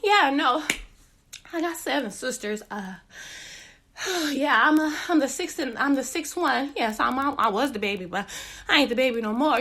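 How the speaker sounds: winded, forcing small talk; out of breath. Retold or imitated. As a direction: talk while gasping for air. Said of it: "feel my breath leaving my body".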